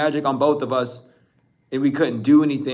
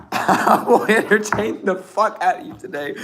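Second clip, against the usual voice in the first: higher voice breaking into laughs; real laughter; 4 semitones higher than usual. Real, not acted. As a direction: talk through a fit of laughing. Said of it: "I don't know why I'm laughing so much".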